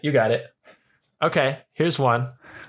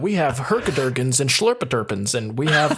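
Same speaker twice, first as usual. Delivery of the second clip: ad announcer voice; 3 semitones higher than usual. Retold or imitated. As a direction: pitch it like a store ad. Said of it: "It was like".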